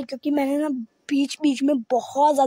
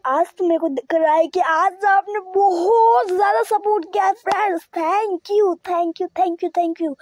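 overwhelmed, thanking everyone; tearful thanks; 4 semitones higher than usual. Real, not acted. Overwhelmed thanking viewers for support. (भावुक होकर धन्यवाद, आवाज़ भर आई)

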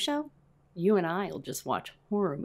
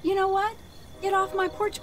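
angry yell; 10 semitones higher than usual. Real, not acted. Chasing off trick-or-treaters.

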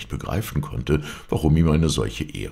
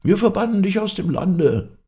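high, loud shout of banishment; loud high-pitched proclamation; crowd's outcry; 6 dB louder than usual. A narrator's reading. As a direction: cry out the verdict as an angry crowd. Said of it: "riefen die übrigen".

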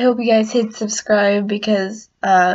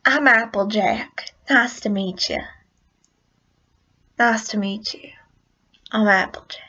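lightly attempted country pony; half-successful folksy introduction; Applejack. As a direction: try a slight country twang. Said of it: "I don't sound like Applejack".

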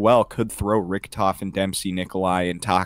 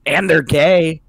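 mock jab; 6 semitones higher, 6 dB louder, slower than usual. Mock jab, repeated louder.

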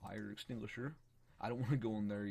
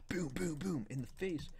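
imitated gunshots; 5 semitones higher than usual. Voices shooting into the mouth.

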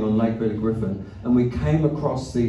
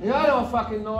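high, soft complaining voice; whining Swede; 10 semitones higher, 6 dB quieter than usual. Retold or imitated. Swedish friend grumbling while rowing, high whine. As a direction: moan it like a miserable rower.

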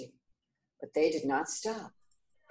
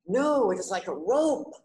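higher, louder yell of disagreement; storybook yell; 5 semitones higher, 6 dB louder than usual. Acted. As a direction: yell it back, insisting. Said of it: "yelled the sixth blind man".

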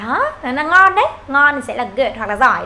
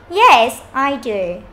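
slow, happy agreement with a loud "yes"; cheerful yes; 5 dB louder, much slower than usual. Shown as a demonstration. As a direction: model a gladly agreeing answer, drawn out. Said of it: "đọc vui lên một xíu".

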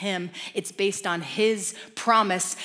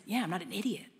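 nervous father; 2 semitones lower, 6 dB quieter, much faster than usual. Retold or imitated. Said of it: "the one's really nervous".

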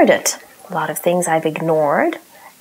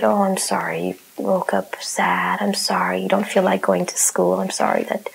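whispered, tender reassurance; gently whispered sympathy to a little girl. Retold or imitated. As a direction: soothe a sad child in a hush. Comforting grumpy daughter, retold.

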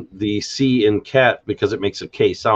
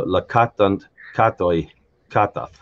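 "katant, katoi, katath" each stressed on KAT; measured "katant, katoi, katath", stem syllable KAT emphasized; stress on word stem. Shown as a demonstration. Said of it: "last syllable in the word stem is emphasized".

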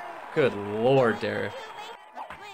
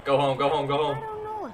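will the runner home; pleading cheer; excited urging. Real, not acted.

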